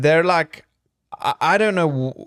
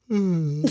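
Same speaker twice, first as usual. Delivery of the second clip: stifled-yawn hum; 3 semitones higher, 3 dB quieter than usual. Shown as a demonstration. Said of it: "I'll just be like".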